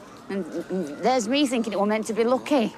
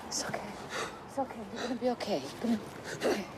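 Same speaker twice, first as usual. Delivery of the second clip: hushed reassurance; 10 dB quieter, faster than usual. Acted. Comforting stabbed boy.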